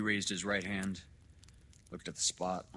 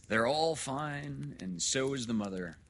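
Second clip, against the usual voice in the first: loud, high, hearty doctor; hearty good news; 6 semitones higher, 6 dB louder than usual. Acted. Doctor reassuring new father about triplets, loudly hearty.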